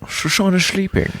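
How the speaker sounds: sing-song high echo. Acted. Cohost repeating the song title in a high teasing voice. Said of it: "echoes the title in put-on voice".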